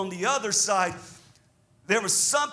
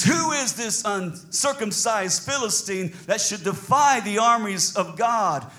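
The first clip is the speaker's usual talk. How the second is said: slow, emphatic indignant challenge; indignant, drawn-out preaching; righteous indignation; 2 semitones higher than usual. Acted. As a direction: declare it with offended conviction. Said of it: "It was a righteous indignation".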